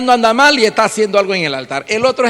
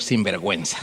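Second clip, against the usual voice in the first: the Lord scolding; 11 semitones lower, 9 dB quieter than usual. Retold or imitated. Voices the Lord's reply.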